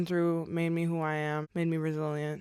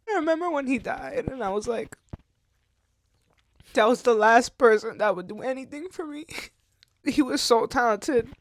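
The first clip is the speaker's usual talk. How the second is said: tearful, higher-pitched recollection; crying; 5 semitones higher than usual. Real, not acted. Woman recalling her grandfather's death, crying. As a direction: talk through real tears. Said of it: "now I'm crying about".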